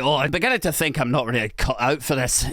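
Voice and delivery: lightly put-on Scottish accent. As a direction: quote him in a Scottish accent. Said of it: "Scottish accent was, was necessary".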